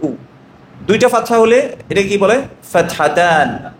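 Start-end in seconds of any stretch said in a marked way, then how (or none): 0.0-0.2 a clear উ sound; teacher sounding out the vowel; vowel sound demo. Shown as a demonstration. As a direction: say উ plainly and held. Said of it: "দম্মার উচ্চারণ কি?".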